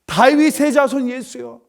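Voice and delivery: retold loud cry. Blind beggar calling to Jesus as he passes, retold loud cry. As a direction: call out as the blind man, pitched well up. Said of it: "주저하지 않고 큰 소리로".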